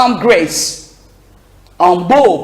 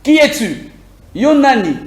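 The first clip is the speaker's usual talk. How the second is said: voice at the door; 4 semitones higher than usual. Retold or imitated. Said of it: "La personne va demander".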